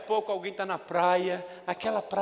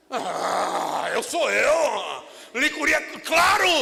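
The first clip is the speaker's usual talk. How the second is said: hasty Peter; 3 semitones higher, 5 dB louder, much slower than usual. Acted. Peter rushing to answer Jesus, loud and eager. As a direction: blurt it out, overeager. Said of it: "Ó o precipitadão".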